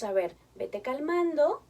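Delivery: despacio, más suave y tranquilizador; calma lenta. Shown as a demonstration. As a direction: baja el ritmo para calmar al niño. (madre calma al niño que llora, lenta y suave)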